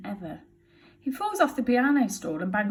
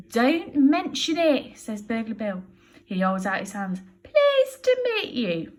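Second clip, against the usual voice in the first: polite Bill; 4 semitones higher, 6 dB louder than usual. Acted. Bill's polite greeting.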